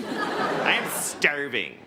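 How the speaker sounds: slow, drawn-out whiny overstatement; mock complainer. Mocking people who say they are starving, mock complaining. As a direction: stretch out the hunger like a hammed-up complaint.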